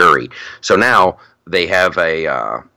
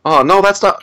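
very high, strained impersonation voice; Jordan Peterson impression; 11 semitones higher than usual. Shown as a demonstration. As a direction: crank the voice up high to mimic him. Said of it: "his voice goes up".

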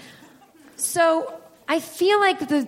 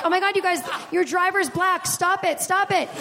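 mock panic; 5 semitones higher than usual. Comic panics in the car.

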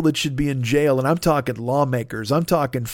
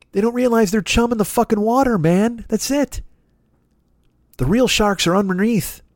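normal talking voice

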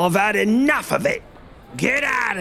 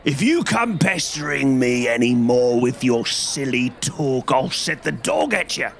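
a furious market trader, higher and far; angry salesman; 5 semitones higher than usual. A narrator's reading. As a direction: shout him away in anger. Angry salesman shouting at man.

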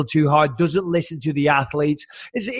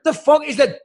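high, stunned disbelief; mock outrage, pitched up; incredulous; 10 semitones higher than usual. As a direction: react like you can't believe it. His own retold reaction.

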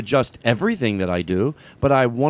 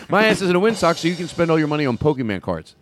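imitating Trent; 3 semitones higher than usual. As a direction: repeat the joke with a touch more punch. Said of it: "You know".

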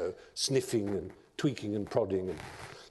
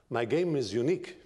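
light hint of a Persian accent; a touch of Farsi accent, unhurried. Old inventor presenting his game to the emperor, faint Farsi accent. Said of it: "in his strange Farsi accent".

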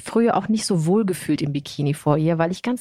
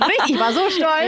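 proud; 9 semitones higher than usual. Real, not acted. Proudly recalling mom's praise.

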